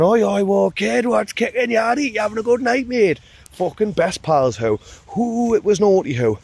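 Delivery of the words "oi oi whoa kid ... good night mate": higher, bubbly welcome to a newcomer; excited greeting. Retold or imitated. Ravers welcoming the newcomer with a high, excited greeting. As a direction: gush like you've found a best pal. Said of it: "They're going".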